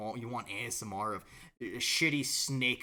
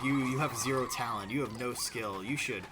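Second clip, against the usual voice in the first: mock harsh critic; 6 dB louder than usual. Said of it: "she'll be like".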